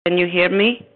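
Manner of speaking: faint, crackly phone line; fading in through static. Real, not acted. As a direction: voice breaking up on a bad connection. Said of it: "Yes, I can hear you now".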